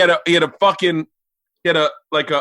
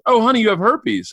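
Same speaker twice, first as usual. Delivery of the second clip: higher, lightly voiced mom; mom's voice; 4 semitones higher than usual. Mom telling her son his diagnosis, imitated higher voice. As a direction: imitate a mom breaking news, pitched up. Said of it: "then Mom just goes".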